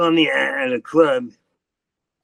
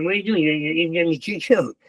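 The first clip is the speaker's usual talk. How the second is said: higher-pitched, worried objection; alarmed protest; 4 semitones higher, faster than usual. Acted. Telling off his reckless partner over the coke, acted alarm. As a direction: protest as if this will get you killed.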